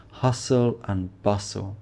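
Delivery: "Hustle and bustle" with no t sound, hussle and bussle; soft "Hustle and bustle", silent t. Shown as a demonstration. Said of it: "we have these silent T sounds".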